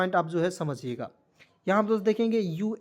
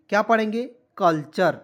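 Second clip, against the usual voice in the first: emphatic quiz; 6 dB louder than usual. Shown as a demonstration. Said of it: "teacher quiz, loud".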